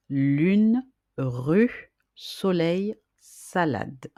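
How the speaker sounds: Lune, rue, soleil, salade said one by one with pauses; clearly articulated words. Shown as a demonstration. Teacher models words for pupils to practise. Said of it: "Entraînez-vous à répéter ces mots".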